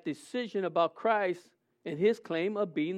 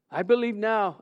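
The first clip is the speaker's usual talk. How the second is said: desperate plea; 3 semitones higher than usual. Retold or imitated. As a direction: beg the Lord for heaven. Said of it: "before God and saying".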